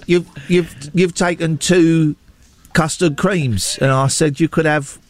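slow mock Southern English accent, complaining; imitating Southern English accent. Colin Farrell's custard cream scene, mocked in a Southern English accent. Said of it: "he does, like, a Southern English accent".

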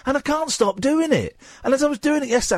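the high voice creeping back; that voice again. Real, not acted. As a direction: stay stuck up in the high voice. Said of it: "this voice".

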